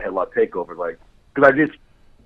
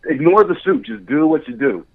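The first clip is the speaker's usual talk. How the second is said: higher, cheery coaxing director voice; coaching director; 5 semitones higher, 4 dB louder than usual. Retold or imitated. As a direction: coax the actors to loosen up, pitched high. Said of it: "and it's like".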